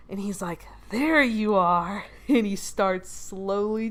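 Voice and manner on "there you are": very slow, drawn-out menace; lightly voiced creepy pursuer. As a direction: stretch it out like a stalker who found his prey. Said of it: "he turns around slowly".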